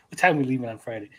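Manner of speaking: mock dumb coworker. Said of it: "So, yeah, yeah".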